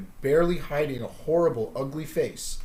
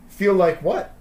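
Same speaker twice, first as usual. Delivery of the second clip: a lightly voiced odd creature, higher; strange voice; 6 semitones higher, 7 dB louder than usual. Creature in the fog asking Luke, lightly strange voice. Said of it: "came a strange voice from within the fog".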